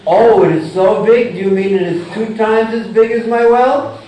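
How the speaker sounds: lightly voiced frog in the well, doubtful rising question; incredulous frog. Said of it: "the frog in the well says".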